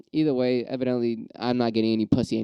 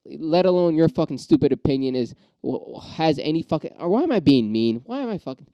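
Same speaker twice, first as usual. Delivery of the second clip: riled up; 3 semitones higher than usual. Real, not acted. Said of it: "I'm getting riled up again".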